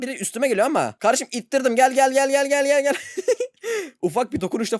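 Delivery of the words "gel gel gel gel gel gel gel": loud repeated come on call; excited calling, come come come. Real, not acted. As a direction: beckon a friend loudly.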